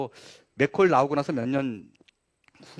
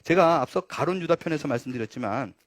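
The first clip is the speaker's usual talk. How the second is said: normal talking voice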